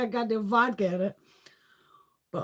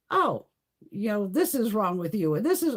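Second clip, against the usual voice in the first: reflexologist; 3 semitones higher than usual. Retold or imitated. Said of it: "she's like".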